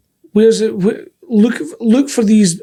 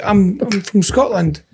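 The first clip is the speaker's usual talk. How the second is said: slowed down, spelling out where he's from; slow careful explaining; slower than usual. Retold or imitated. Scot abroad answering where he's from, slowed down and careful. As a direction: talk slowly so the foreigner follows. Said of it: "you just don't realise how fast you talk".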